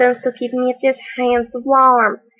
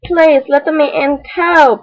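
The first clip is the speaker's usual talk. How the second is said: begging; 3 semitones higher, slower than usual. Acted. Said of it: "begged the fox".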